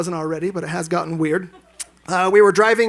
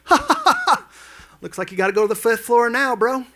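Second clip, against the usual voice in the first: mocking laugh; 5 semitones higher, 4 dB louder than usual. Mocking guy in the elevator.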